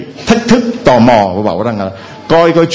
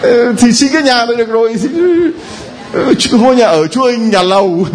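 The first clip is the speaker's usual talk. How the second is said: mock greedy prayer; 8 semitones higher, faster than usual.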